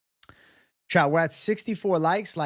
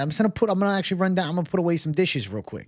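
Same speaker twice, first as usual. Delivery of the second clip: nervous babbling; 3 semitones higher, 4 dB louder, faster than usual. Retold or imitated. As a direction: rattle it off to escape the conversation. Nervously excusing himself, retold.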